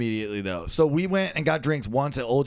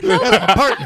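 cowboy voice; 6 semitones higher, 9 dB louder than usual. Retold or imitated. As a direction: say it like an old western cowboy. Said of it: "Partner sounds like a cowboy".

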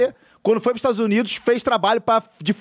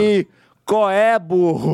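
Shrek voice; 3 dB louder, much slower than usual. Retold or imitated. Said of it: "Shrek do Bussunda".

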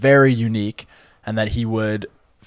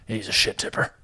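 Bautista impression; 4 dB quieter than usual. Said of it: "good Bautista impression".

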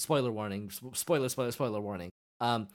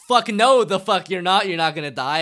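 defiant yell; 6 semitones higher, 11 dB louder than usual. Retold or imitated. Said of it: "Sugimoto's like".

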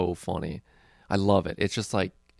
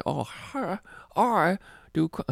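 higher, half-hearted mock Asian accent, cut off; 9 semitones higher than usual. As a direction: try a crude Asian accent badly and give up. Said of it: "I should be doing the racist ass".

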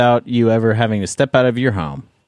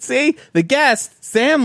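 high, slow Swedish lilt; Swedish accent; 12 semitones higher, slower than usual. Pretend. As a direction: keep the Swedish bit going. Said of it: "continuing the Swedish bit".

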